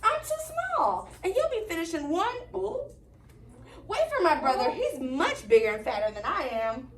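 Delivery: high, stammering frightened goat; trembling goat. Acted. Little goat begging the troll, high and stammering. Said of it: "trembled where he stood".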